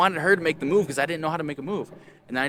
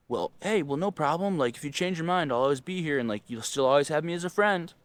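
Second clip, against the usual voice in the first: over-agreeable reply; 5 semitones higher than usual. Retold or imitated. So embarrassing.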